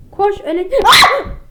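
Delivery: cut-off scream; being chased. Real, not acted. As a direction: caught mid-sentence and cry out. Caught by monster. (kovalanırken çığlık)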